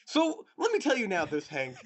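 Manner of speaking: high, loud mock vlogger address; John Green impression. Friend mimicking co-host's vlogger-like delivery to Hank, hammed-up. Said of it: "turning into John Green as we speak".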